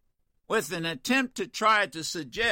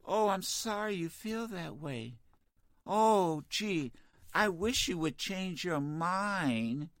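mock apology; 6 dB quieter, slower than usual. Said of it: "What do you want me to say to him?".

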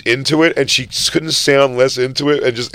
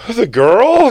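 high unsure voice; 11 semitones higher, 6 dB louder than usual. Retold or imitated. Voicing the woman's unsure answer.

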